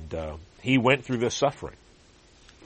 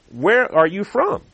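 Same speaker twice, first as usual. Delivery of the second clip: urgent Pilate; 9 semitones higher, 7 dB louder, slower than usual. Acted. Pilate questioning Jesus.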